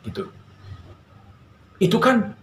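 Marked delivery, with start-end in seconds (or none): 1.8-2.4 high, lightly acted angry protest; a hint of the castaway's outburst; mock angry wail. Castaway protests to God over his burnt hut, a hint of anger. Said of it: "dia marah".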